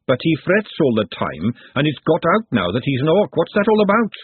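agitated cook, climbing in pitch; lightly voiced outspoken cook; forthright cook, worried. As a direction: build to an exasperated question. Glenda argues for Nutt.

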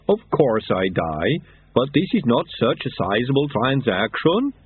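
a hint of a slow, rumbling Yeti; lightly voiced Yeti. Yeti tells the monks about the sweeper, lightly voiced Yeti. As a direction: Yeti kindly explaining, voice a little altered.

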